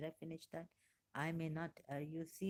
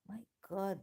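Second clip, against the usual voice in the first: awed gasp; 8 semitones higher, 4 dB louder than usual. Real, not acted. Awed by the research shown.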